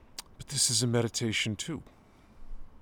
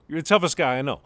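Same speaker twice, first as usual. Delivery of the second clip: ordinary talk, nothing marked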